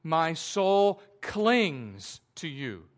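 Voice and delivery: slow quoted verse. Shown as a demonstration. Quoting verse in sermon.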